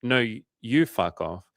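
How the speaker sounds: slow, hesitant retort; mildly baffled, drawn-out reply; confused comeback. Retold or imitated. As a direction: draw it out, unsure, as a retold comeback. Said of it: "so confused by that".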